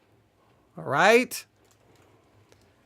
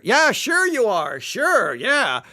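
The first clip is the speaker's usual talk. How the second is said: slow dry sarcasm; sarcastic; slower than usual. Real, not acted. Lecturer mocking the allegorists, slow sarcastic retort. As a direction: roll your eyes at the claim.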